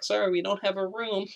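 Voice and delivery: high put-on receptionist voice; receptionist refusing. Receptionist to the screaming cop, put-on high refusal. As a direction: imitate a desk clerk turning someone away.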